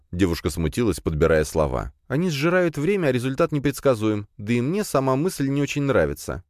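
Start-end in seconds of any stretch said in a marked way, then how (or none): 2.1-6.4 put-on high, halting girlish voice; young daughter, hesitant. A narrator's reading. Daughter confessing to her father, nervous high voice.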